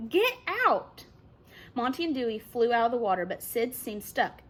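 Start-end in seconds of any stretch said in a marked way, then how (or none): 0.1-1.1 panicked yell. A narrator's reading. Chet panicking at shark.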